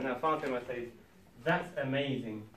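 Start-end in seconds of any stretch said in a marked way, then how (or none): 1.4-2.5 slow, dry mock praise; mildly sarcastic. Fatima answers the optimistic man, slow and lightly sarcastic. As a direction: draw out the praise with understated sarcasm. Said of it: "if she's being sarcastic".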